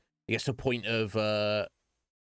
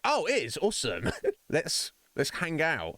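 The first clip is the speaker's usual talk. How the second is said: higher, giddy put-on friend voice; mock excited friend; 8 semitones higher, 3 dB louder than usual. Ryan greeting a surprise visitor, in a playful high mock-thrilled voice. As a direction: ham up a carefree buddy thrilled by the visit. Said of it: "Ryan might just be like".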